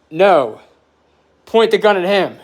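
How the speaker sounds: retold shout. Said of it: "shouts to the cop".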